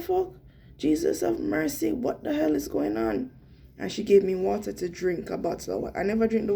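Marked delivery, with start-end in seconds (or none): 0.0-3.3 retold panic. Phone snatched away, she cries out in retold panic. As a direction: cry out as if the world is spinning.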